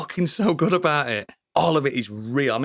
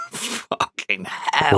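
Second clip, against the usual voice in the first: laughing; 4 semitones lower, much slower than usual. Real, not acted. Laughing at how good the show is.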